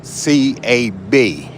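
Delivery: C A B spelled out letter by letter, slow; spelling it out. Real, not acted. Spelling "C A B" out slowly for the radio listeners. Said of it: "spells out the word".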